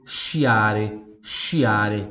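Italian teacher model; Italian model word. Shown as a demonstration. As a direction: model sciare as shee-ah-reh. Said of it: "em italiano se escreve".

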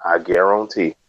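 lightly done Cajun cook catchphrase; Justin Wilson impression. Host recalls a TV cook's catchphrase, light Cajun impression. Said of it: "or Justin Wilson, the Cajun Cook".

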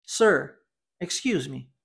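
"Sir, excuse me" said clearly, pausing after "Sir"; model pronunciation. Shown as a demonstration. Teacher giving learners a phrase to repeat, clear model "Sir, excuse me". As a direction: model "Sir, excuse me" for repetition, falling at the end. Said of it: "Eu vou falar a frase e você repita".

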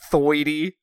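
"thoity" said with oi for the ir sound; "thoity" with a Brooklyn oi, no R; New York oi sound. Retold or imitated. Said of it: "Every time he said "oi" instead of an R sound".

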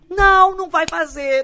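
diretor imitado, mais alto e lento, debochando; resposta seca imitada. Retold or imitated. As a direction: responde com desprezo. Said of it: "Ele fez". (imitação debochada)

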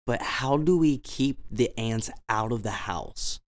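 slowly imitated English accent. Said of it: "Completely English accent, by the way. No French".

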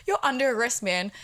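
a touch of official firmness; serious authority. Retold or imitated. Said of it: "Serious authority voice".

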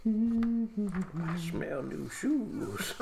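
high, slow, laughing quip. Real, not acted. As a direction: laugh out the joke. Player jokes, laughs.

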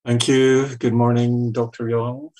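muffled through a mask; through a face mask. Real, not acted. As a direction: speak behind a face mask. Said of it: "please forgive my mask".

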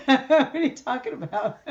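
amused, laughing protest. Real, not acted. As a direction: laugh the words out in disbelief. Mock disbelief, laughing.

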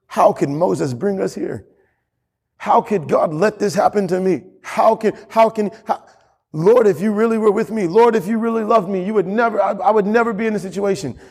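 a hint of whining complainer; mock complaint. Pastor mimicking grumbling Israelites, mild whine. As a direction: voice the grumbling people lightly.

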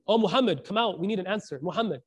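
mild mock yell, loudest on the name; retold screaming. Man demanding the Prophet come out, mild mock yell. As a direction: imitate an impatient caller at the door. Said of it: "he just starts screaming".

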